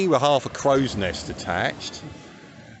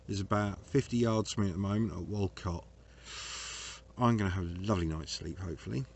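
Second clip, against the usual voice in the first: quiet narration; 2 semitones lower, 11 dB quieter than usual. Acted. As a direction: murmur it like a cosy film intro. Soft self-narrated film intro.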